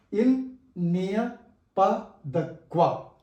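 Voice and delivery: il n'y a pas de quoi, quoi as "kwa", word by word. Shown as a demonstration. Teacher models phrase for learners, OI in "quoi" as wa. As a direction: say quoi as kwa, measured syllables. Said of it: "O I is pronounced as W A".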